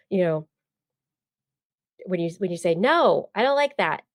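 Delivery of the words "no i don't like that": higher, louder emphatic refusal; aggressive dislike. Shown as a demonstration. Showing how people snap at an assistant, aggressively. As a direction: push back hard, pitch jumping up. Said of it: "you are aggressively not liking it".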